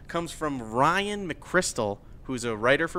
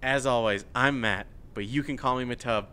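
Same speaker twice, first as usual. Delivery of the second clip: sincere and soft; 4 semitones lower, 5 dB quieter than usual. Real, not acted. Serious personal news, sign-off.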